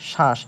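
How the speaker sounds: "শ্বাস" on its own, falling, with sh; sh for dental s. Shown as a demonstration. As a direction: sound out শ্বাস with sh. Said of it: "তালব্যস্বর মতো উচ্চারণ হচ্ছে". ("শ্বাস" তালব্য শ দিয়ে উচ্চারণ)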